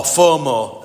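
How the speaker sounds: northern English "fomo", long flat O sounds; Northern English accent. Shown as a demonstration. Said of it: "as we say up north".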